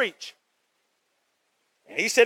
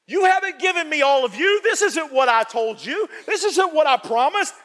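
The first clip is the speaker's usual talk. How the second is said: a lightly voiced Lord, pitched higher and slowed; 6 semitones higher than usual. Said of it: "I hear this voice and say".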